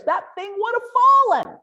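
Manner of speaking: loud high punchline shout; big comic exclamation; joking shout. Real, not acted. Joking crowd would collapse bridge.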